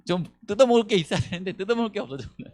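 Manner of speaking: high, sneering imitation of greedy people; mocking greedy voice. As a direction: voice them like scavengers losing interest. Preacher voices greedy onlookers.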